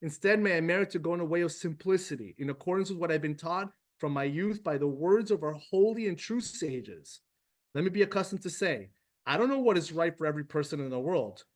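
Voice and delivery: quick, earnest prayer read aloud; a touch of fervent prayer. Acted. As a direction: read the prayer briskly and sincerely. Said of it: "Let's just read it together".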